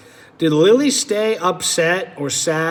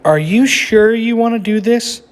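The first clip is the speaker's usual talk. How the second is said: put-on higher, pleading child's question; anxious Lily; 4 semitones higher, 5 dB louder than usual. Lily asks Ginger if she is sure, higher pleading voice. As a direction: gently press a nervous friend.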